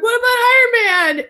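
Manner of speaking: put-on high, pleading child voice; high mock-kid question; imitated asking kids. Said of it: "they're like".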